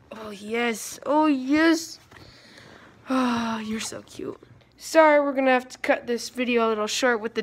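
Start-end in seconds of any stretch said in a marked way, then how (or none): 0.1-4.4 cooing. Real, not acted. Cooing over belly rubs.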